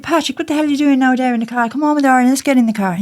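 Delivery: put-on Irish accent. Playing Irish to Pat in the car, mock Irish accent. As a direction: ham up an Irish accent, quick. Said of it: "I'm gonna be Irish today".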